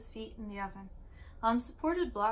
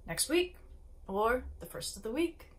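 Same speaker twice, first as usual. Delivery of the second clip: determined; 2 semitones higher than usual. Acted. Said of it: "answer in profound determination".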